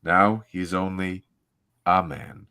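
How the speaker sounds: measured, dramatic comic-book narration; story narration. Acted. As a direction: read it like a solemn, grand opening. Reads comic narration aloud.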